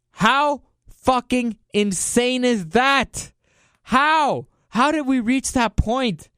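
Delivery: high, exasperated disbelief; real exasperated ranting; incredulous outrage. Real, not acted. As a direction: pitch it up and draw out each indignant question. Incredulous rant at speaker's stunt.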